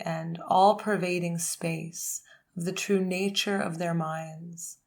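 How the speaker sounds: measured recital of Buddhist prayers; prayer recitation. Real, not acted. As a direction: recite evenly, phrase by phrase, with pauses.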